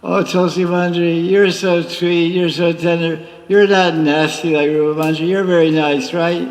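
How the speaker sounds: Radharani sweet-talking. Acted. Radharani voiced praising Tulsi Manjari.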